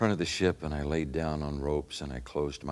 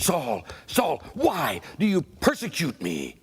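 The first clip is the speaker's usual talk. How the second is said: much higher, slow and resonant divine call; echoing heavenly voice calling Saul; 12 semitones higher, 5 dB louder, slower than usual. Acted. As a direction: call out as a voice from the blinding light. Voice of Jesus from light.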